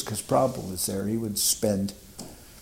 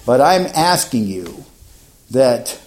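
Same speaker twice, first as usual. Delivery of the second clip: eager challenge; 6 dB louder than usual. Retold or imitated. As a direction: push the clever question hard and loud. Young self challenging Prabhupada.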